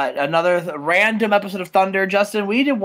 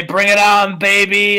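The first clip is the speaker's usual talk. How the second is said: hyped challenge; 2 semitones higher, 6 dB louder, slower than usual. Real, not acted.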